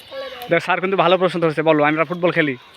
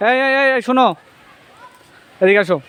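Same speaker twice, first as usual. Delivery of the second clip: raised voice, summoning from afar; yelling across the room; 3 semitones higher than usual. Real, not acted. Teacher calling kids over.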